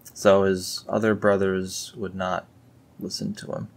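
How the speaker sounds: normal talking voice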